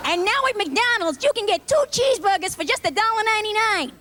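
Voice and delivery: high, upbeat commercial read; ad announcer. Retold or imitated. McDonald's spokesman pitching cheeseburgers, upbeat and high. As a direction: sell it like a TV spot.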